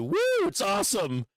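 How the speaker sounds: high hammed-up whoop; a mocking, cartoonish celebration; mock cheer. Streamer mocks the president cheering oil prices, high mock whoop. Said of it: "telling you".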